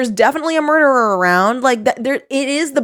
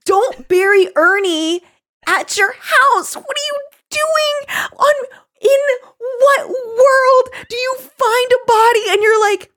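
incredulous rant; 14 semitones higher than usual. Real, not acted. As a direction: rant in total disbelief. Incredulous rant about burying body.

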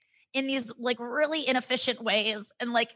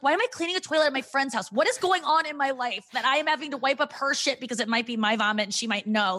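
higher, mock-incredulous self-talk; exasperated self-questioning; 4 semitones higher than usual. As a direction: question yourself in exasperated disbelief, pitched up. Acts out own exasperated self-questioning.

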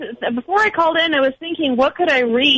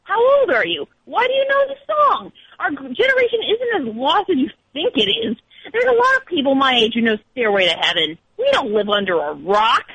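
a mildly voiced crazy-eyed stranger, pitched up; quizzing stranger. Read the Penn Station stranger's rant, lightly acted. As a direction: pester her with questions, lightly acted. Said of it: "starts asking all these questions".

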